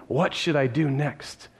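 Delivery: a man slowly asking himself what comes next; slow pondering. Shown as a demonstration. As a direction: turn the question over slowly. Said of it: "at least he's thinking".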